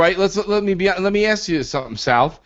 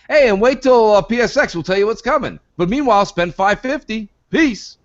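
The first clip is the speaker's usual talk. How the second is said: mock corporate pitch; 6 semitones higher than usual. Mocking Sony's pitch.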